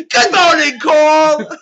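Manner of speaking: high, loud imitation of a posh English greeting; mock English accent. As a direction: shout it like a hammy English host. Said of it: "Do more than just".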